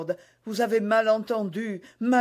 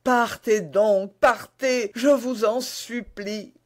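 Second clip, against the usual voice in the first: high voice swelling louder with dread; anguished pleading; 5 semitones higher, 3 dB louder than usual. Acted. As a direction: build to a desperate, high-pitched entreaty. Queen fears his death, begs him. (supplication éperdue, voix haute et angoissée)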